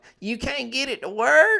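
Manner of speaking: put-on very high voice with a thick Tennessee accent. Retelling a voice heard while a button wouldn't work, in thick Tennessee accent. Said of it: "in the most Tennessee accent".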